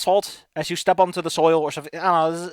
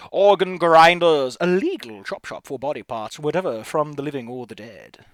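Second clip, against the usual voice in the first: scene-setting narration; 3 semitones lower, slower than usual. Acted. Reads out game narration.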